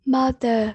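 "mother" with a short UH in the first syllable; teacher's careful "mother", first vowel UH; UH sound in mother. Shown as a demonstration. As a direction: model "mother" carefully, UH not OH. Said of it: "Ơ, ơ".

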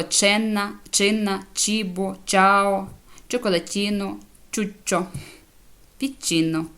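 «ченна», «чинна», «чібо» onward, each with a clear ch; word-by-word ch examples, «ченна» through «піччіно»; ch recap. Shown as a demonstration. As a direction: list the models from «ченна» to «піччіно», sounding ch in each. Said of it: "от, як воно читається".

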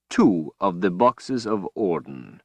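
slow, silky villain voice; a cold, gloating overlord; menacing villain. Acted. Villain Rahl speaks.

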